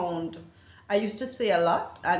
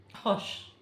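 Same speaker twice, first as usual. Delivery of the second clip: whispered, soft "hush" as a quick apology; apologetic hush; 4 dB quieter than usual. Shown as a demonstration. Apologising after a belch, whispered hush. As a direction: breathe out "hush" softly, like sorry. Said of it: "I will probably say hush".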